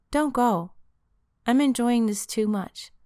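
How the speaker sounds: a touch of urgent pleading; pleading girlfriend. Acted. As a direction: beg him not to go. Catherine pleads.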